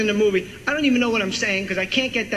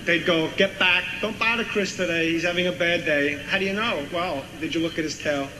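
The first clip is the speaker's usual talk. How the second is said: Walken impression. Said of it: "Walken goes".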